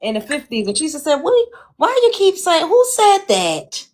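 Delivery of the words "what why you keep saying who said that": much higher, slowing down, mock-outraged grandma; Southern grandma. Granddaughter imitating her grandma's indignant Southern drawl, high and slow. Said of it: "That's why she had that Southern drawl".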